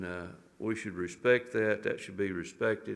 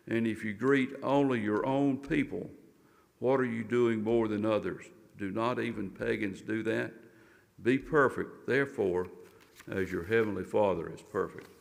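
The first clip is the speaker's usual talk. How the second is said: scripture reading. Acted. Reads Matthew five aloud.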